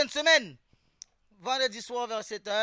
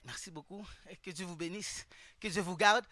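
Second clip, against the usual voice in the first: mumbled blessing, much softer and lower; pious beggar; 6 semitones lower, 9 dB quieter than usual. Retold or imitated. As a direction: thank them like a humble beggar, barely audible. Beggars thanking churchgoers. (mendiant pieux qui marmonne doucement)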